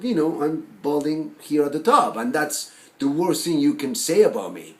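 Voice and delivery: loud, projected, emphatic admission; animated admission. Acted. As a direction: own up openly and emphatically. Animated second take, admits balding.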